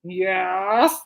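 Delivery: mock sister's drawn-out yes, lifting at the end; imitating sister's voice. Imitating sister hearing about the ticket, lightly mimicked. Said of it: "her voice, oh my gosh, she went".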